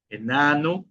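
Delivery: "Enano" with a clear eh at the start and a rising end; initial E kept. Shown as a demonstration. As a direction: model "Enano" for learners, first vowel e. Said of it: "¿Por qué yo pronuncio como E?".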